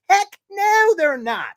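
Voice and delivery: emphatic. Real, not acted. Emphatic outburst.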